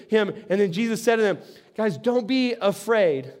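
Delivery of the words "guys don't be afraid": comforting. Acted. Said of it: "So he comforts them".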